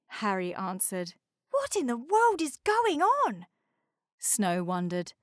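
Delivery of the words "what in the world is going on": icebreaker character voice. A narrator's reading. Snow icebreaker voice.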